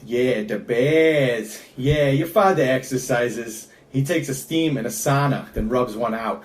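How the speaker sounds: lightly voiced Chicago guy; a hint of a tough Chicago dad; understated Chicago accent. Shown as a demonstration.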